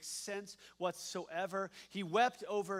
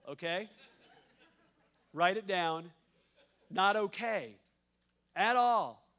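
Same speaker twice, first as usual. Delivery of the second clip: laughing aside; 2 semitones higher, 11 dB louder, slower than usual. Real, not acted. Joking aside in sermon.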